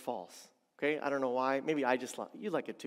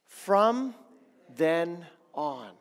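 louder, inviting; congregation call; 5 dB louder, much slower than usual. Shown as a demonstration. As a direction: lead the room in saying it. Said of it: "Can you say that with me?".

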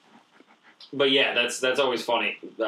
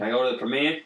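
put-on Brooklyn accent; faster than usual. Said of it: "heavy Brooklyn accents".

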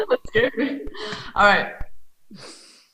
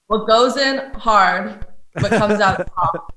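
slow riddle delivery; 4 dB louder, slower than usual. Shown as a demonstration. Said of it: "stoop you on one".

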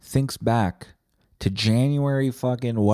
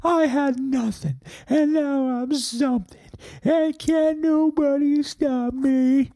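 high, drawn-out motivational movie hero; movie quote; slower than usual. Acted. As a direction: declaim it slowly like a film speech. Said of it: "a bunch of movie quotes".

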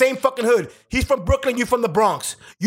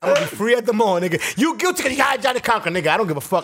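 Chris Rock impression. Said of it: "like Chris Rock said".

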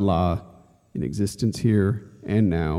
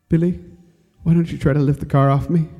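put-on higher, fast child's voice begging his brother; pleading trapped boy; 7 semitones higher, faster than usual. Trapped little Benny begs Billy for help, higher pleading child voice. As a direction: plead like a small boy pinned under a car.

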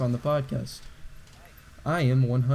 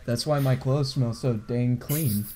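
commercial voice. Pretend. Finishes the mock Tide ad.

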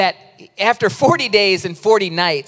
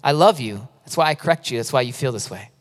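calm, lower and settling toward the end; 6 semitones lower than usual. Retold or imitated. The Lord very calmly correcting a man beating himself up, calm. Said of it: "he just very calmly, he said".

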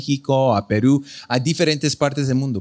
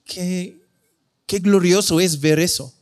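quiet awe; 2 semitones higher than usual. Retold or imitated. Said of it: "me sentí".

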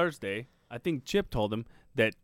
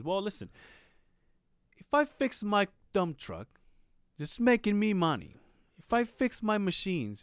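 higher, slow mimic of him; imitating his way of talking; 6 semitones higher than usual. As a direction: lecture slowly, pitched up like him. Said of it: "and this is how he talks".

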